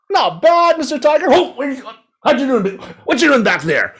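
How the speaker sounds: very high, squeaky frog voice; high, smug little frog; cheeky frog. A narrator's reading. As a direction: taunt the tiger from the far side. Frog figure behind the tiger.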